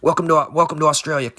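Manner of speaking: put-on light Australian accent on a cocky greeting. Playing the Australian who punched the kangaroo, light Australian accent. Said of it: "in the character of the Australian punching the kangaroo".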